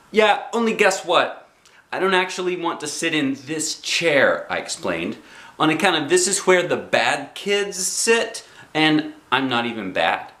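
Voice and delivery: put-on high, bouncy kid voice; little girl Junie B. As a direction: play a bossy six-year-old.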